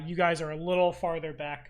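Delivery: ordinary delivery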